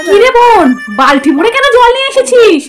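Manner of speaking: high, slow incredulous question; can't believe she brought a bucket; exasperated disbelief. Acted. Elder sister scolding the sister who brought a bucket, incredulous.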